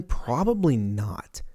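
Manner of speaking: slow whispered aside. Real, not acted. Vlogger reassuring viewers the apocalypse won't come, whispered. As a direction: breathe it as a secret.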